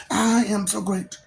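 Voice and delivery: a hint of a bratty cartoon kid; lightly voiced cartoon boy, slow; mock Springfield brat; Bart Simpson. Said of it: "Bart Simpson".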